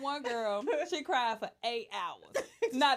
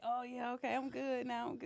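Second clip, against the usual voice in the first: mock relieved patient; 2 semitones lower, 7 dB quieter than usual. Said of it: "they like".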